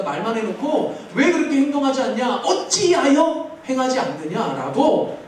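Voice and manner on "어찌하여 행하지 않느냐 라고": slow, drawn-out rebuke with 어찌하여 stressed. Retold or imitated. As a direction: quote Jesus scolding slowly. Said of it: "꾸짖으시는 말씀".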